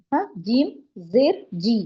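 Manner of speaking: "جیم زیر جی" slowly, ending on "جی" with a long ee; demonstrating the i sound. Shown as a demonstration. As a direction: sound out "جی" for the class. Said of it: "ای sound ملایا". ("جی" کو لمبی ای آواز سے ادا کریں)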